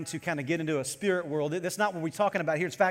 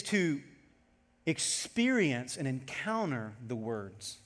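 slow; 5 semitones lower, 6 dB quieter, much slower than usual. Real, not acted. Emphatic slow phrase.

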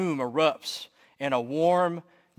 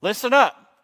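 loud, high-pitched confession to the whole room; acted yelled outburst; 6 semitones higher, 6 dB louder than usual. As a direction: yell it out, fed up with pretending. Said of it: "I yell out to everyone that can hear".

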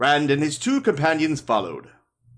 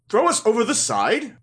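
surprised; 7 semitones higher than usual. Acted. Rand shocked at threat.

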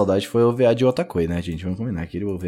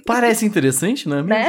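ironic; 9 semitones higher than usual. Real, not acted. Ironic remark on no synopsis.

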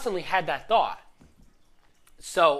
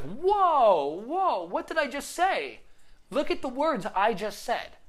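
high, startled whoa, catching his own words; acting out the moment he caught himself; shocked realization; 8 semitones higher, 3 dB louder, slower than usual. Coach retelling how he caught his own words, startled.

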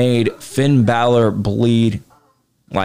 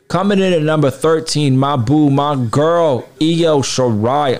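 excited countdown; 4 semitones higher than usual. Acted. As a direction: hype up your favourite. Announcing favourite's entry.

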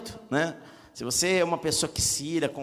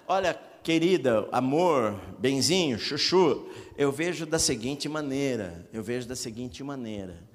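gentle calm tone; 3 semitones lower than usual. Shown as a demonstration. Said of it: "descrever o seu ponto de vista sem atacar".

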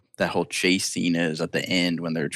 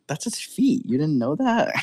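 put-on much higher childish insistence; kid voice; 10 semitones higher than usual. Henry Thomas convincing Drew that E.T. is real, high kid voice. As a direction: sell it like a kid covering a lie. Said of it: "And he's like".

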